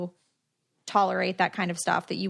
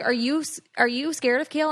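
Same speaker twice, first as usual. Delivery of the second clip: higher, anxious question; surprised question; 5 semitones higher than usual. Retold or imitated. Chelsea asking if she fears Kale, higher disbelieving voice. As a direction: ask it in disbelief, voice lifting. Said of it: "And she's like".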